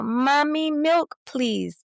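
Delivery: put-on toddler asking. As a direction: ask like a little kid. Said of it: "and then they go".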